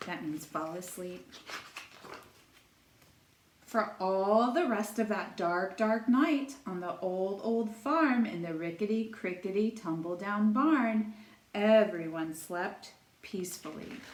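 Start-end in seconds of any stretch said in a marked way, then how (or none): 3.7-14.0 lilting singsong read-aloud; storytime reading. A narrator's reading. Teacher reading a rhyming book to children, singsong storytelling. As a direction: read it like a picture book for little kids.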